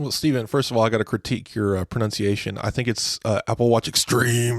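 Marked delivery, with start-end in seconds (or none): 3.5-4.6 slower 90s TV commercial voice. Correcting a co-host's pronunciation of the product name, in a Super Soaker commercial voice. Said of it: "like a Super Soaker commercial from the nineteen nineties".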